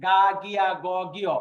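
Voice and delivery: গা, গিয়া, গ, গিয় with no puff of air; light, unforced sound. Shown as a demonstration. Teacher recalling the earlier letter, গ said without pressure. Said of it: "এটা কিন্তু হালকাভাবে".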